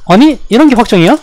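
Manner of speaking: high, loud and indignant; outraged disbelief. Real, not acted. Streamer outraged that a combo is guaranteed, high and loud. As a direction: complain to the screen in disbelief.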